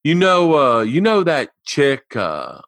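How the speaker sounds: lightly imitated casual caller; Derek. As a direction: feel out the topic like a buddy on the phone. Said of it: "I did his voice".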